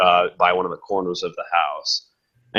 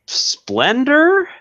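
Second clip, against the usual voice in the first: squeaky high; 4 dB louder than usual. Real, not acted. GM marvels at naked beast.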